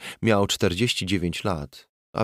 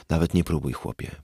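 stoic calm; 3 semitones lower, faster than usual. Acted. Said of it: "ze stoickim spokojem".

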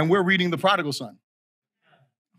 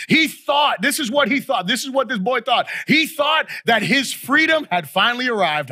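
raised, emphatic pulpit cadence; preaching; 4 semitones higher than usual. Real, not acted. Preacher on the prodigal son's choice, emphatic preaching. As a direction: drive each point home with rising force.

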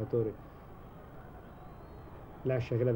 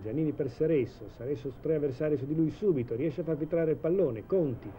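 breathless italian goal commentary; 4 semitones higher than usual. Real, not acted. Shot on goal, commentator builds.

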